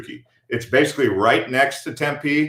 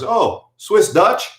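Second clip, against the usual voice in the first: imitating a stranger; 8 semitones higher, much slower than usual. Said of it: "He goes".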